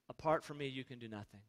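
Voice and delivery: low, very soft warning; quiet, sinking scripture quote; hushed solemn quote. Acted. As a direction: drop the voice low and soft for weight. Quoting Jesus in dropped voice.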